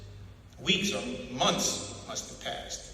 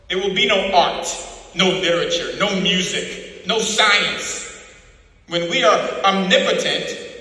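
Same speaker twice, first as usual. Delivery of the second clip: cold lecture swelling louder toward the list of what will vanish; O'Brien's creed; 2 semitones higher, 6 dB louder than usual. Acted. Interrogator to Winston, rising louder cold proclamation. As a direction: hammer each "no" home. O'Brien describes the party's world.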